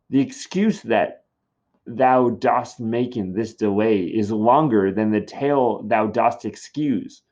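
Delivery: slow, pointed exasperation; exasperated, slow. Acted. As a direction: spell out her frustration slowly. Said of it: "Julia is very impatient".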